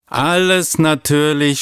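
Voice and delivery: put-on an eager kids' chorus answering; chorus shout. A narrator's reading. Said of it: "schallte es im Chor zurück".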